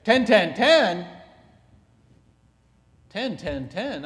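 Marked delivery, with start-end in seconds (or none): 0.0-1.1 high, loud incredulous repeat; loud shocked question; surprised. Real, not acted. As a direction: echo it in disbelief. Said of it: "I thought you said you ran".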